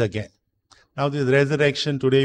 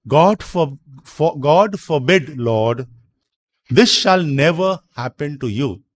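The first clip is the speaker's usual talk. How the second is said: louder, emphatic quoted objection; mild retold rebuke; 5 dB louder than usual. Preacher quoting Peter rebuking Jesus, mildly reproving. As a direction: voice Peter's protest firmly, without full anger. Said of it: "began to rebuke him".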